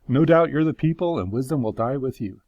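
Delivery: mildly sarcastic mock praise; sarcasm. Job answering his know-it-all friends, light sarcasm. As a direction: feign admiration with a touch of sarcasm. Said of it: "I love that sarcasm".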